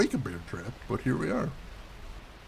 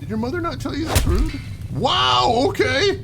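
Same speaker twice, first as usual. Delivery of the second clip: mock scolding; 9 semitones higher, 4 dB louder than usual. Real, not acted. Scolds the spider pointing at him.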